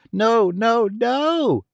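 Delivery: put-on high, desperate old man's no; screamed. A narrator's reading. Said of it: "screamed the old man".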